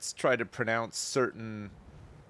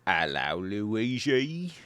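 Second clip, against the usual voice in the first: Mario voice; much slower than usual. Pretend. Greeting Luigi as Mario, cartoon Italian. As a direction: chirp it like Mario.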